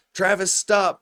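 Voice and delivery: mock security guard calling after someone; imitated guard's order. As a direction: call out a stop order, retold. Guard ordering fleeing man, retold.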